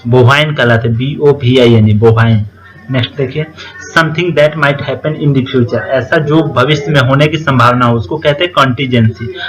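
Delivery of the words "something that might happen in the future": very slow, word by word; slow, careful dictation pace. Shown as a demonstration. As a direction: read it out for students to copy down. Dictating English definition slowly.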